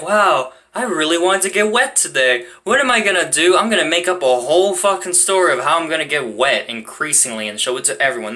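mock-eager self-talk that settles by the end; mock inner excitement. Joking about their own thinking, mock excited. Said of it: "thinking in my mind, back of my head, like".

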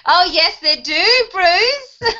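high, loud, drawn-out yes; delighted agreement. Real, not acted. Teacher agreeing with student about love handles, delighted. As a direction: exclaim it with amused gusto.

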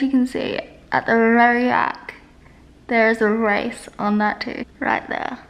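talking with cheek held back; finger stretching cheek. Real, not acted. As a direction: mouth pulled open by finger. Seen 0: Finger pulls mouth corner wide open, showing braces throughout the labelled words.

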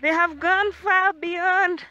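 breathless on a hike; winded, puffing while climbing; out of breath. Real, not acted. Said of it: "I'm running out of breath".

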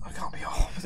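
soft whispered insistence; whispered denial. Shown as a demonstration. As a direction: repeat it in a hushed whisper. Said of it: "repeated denial".

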